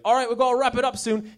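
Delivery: badly imitated English publicist accent; weird English accent. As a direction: put on an unplaceable, vaguely English accent. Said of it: "He had an English accent, so I added a weird, I don't know what that was accent".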